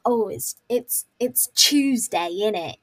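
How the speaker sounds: drawn-out British chav catchphrase; mock British chav accent. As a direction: imitate a chav, stretching out Tuesday. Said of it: "British chavs always say this".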